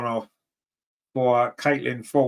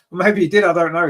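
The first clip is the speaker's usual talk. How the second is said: amused reply through a laugh, louder; 3 semitones higher, 6 dB louder than usual. Real, not acted. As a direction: laugh it off at the viewer's joke. Laughs at chat joke.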